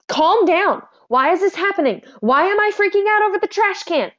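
high-pitched, exasperated self-scolding; freaking-out inner voice. Acted. Borderline person scolding themselves mid-outburst over trash, panicked inner voice. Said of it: "all we're thinking in our head is".

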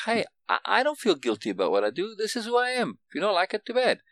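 defiant and high, daring anyone to object; brash pretend comeback at a dinner; hard case attitude. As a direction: toss it out like a challenge, no apologies. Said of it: "that kind of hard case attitude".

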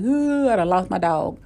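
imitated wail on the opening sound; hammed-up sobbing lament; mock boo-hooing. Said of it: "I'm just boo-hooing now".

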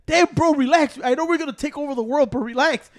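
high, relaxed bro voice; frat bro. Retold or imitated. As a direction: chill bro telling a buddy to relax. Voicing himself calming a friend.

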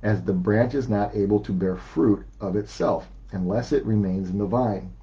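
measured, deliberate Bible reading; scripture reading. Acted. Pastor reading John to the congregation, measured and deliberate. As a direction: read the verses out steadily for the church. Reads John fifteen aloud.

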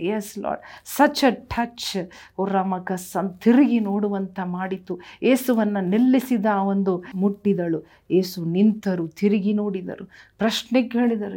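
rising, impassioned preaching voice; fervent preaching. Acted. Pastor preaching healing to the congregation, fervent. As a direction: preach healing to the crowd with fire. Full-force healing sermon.

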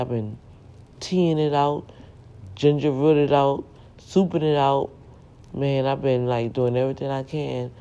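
hoarse, scratchy throat. Real, not acted. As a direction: talk through a scratchy throat. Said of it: "for the scratchy voice".

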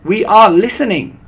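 high, loud eager chorus; excited audience cry. A narrator's reading. Witch audience jumping in their chairs, crying out eagerly. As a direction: call out with keen excitement. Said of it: "cried the audience".

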